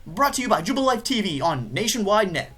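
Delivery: lively TV sign-off read; TV announcer. Acted. Game player reads out the TV show's sign-off, announcer style. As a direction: read it like a program host.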